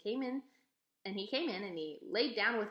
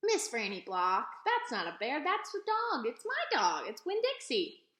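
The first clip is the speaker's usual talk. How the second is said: put-on insistent girl; 4 semitones higher, 4 dB louder than usual. Girl insisting it's her dog.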